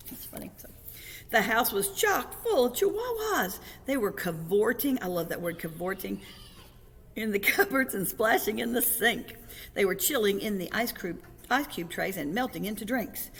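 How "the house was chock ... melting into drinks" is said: louder, bouncy read-aloud; story narration. A narrator's reading. Reader tells children of chihuahuas cavorting everywhere, excited narration. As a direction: relish the mayhem with swooping emphasis.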